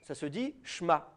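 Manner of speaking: slow down and model the word Shma; Aramaic pronunciation. Shown as a demonstration. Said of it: "Et en araméen". (prononciation araméenne, Shma dit lentement)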